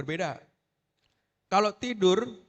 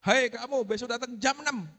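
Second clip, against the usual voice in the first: higher-pitched teacher's call; called-out order; 5 semitones higher than usual. Shown as a demonstration. Teacher telling a late pupil when to come, calling out. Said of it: "Teriakan seperti itu".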